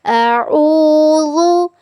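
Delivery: अऊज़ु with a soft, lisped zaal, tongue between the teeth. Shown as a demonstration. Teacher shows students the soft zaal in अऊज़ु. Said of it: "ज़ाल को बिल्कुल नरमी के साथ पढ़ना है".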